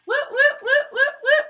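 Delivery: high, loud party chant; giddy celebration. Real, not acted. Streamer starts a dance party for the milestone, giddy whooping.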